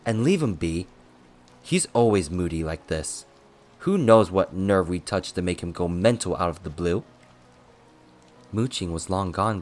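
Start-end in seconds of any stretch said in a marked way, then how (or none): 0.0-7.0 louder, fed-up complaint; exasperated dismissal. Acted. Attendant complaining about a moody colleague, exasperated. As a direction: wave it away with irritation.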